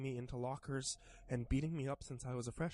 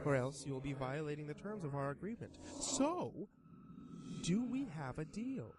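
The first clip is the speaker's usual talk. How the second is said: sly creature voice; 3 semitones higher than usual. Acted. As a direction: tempt him like a grinning demon. Creature seals the deal.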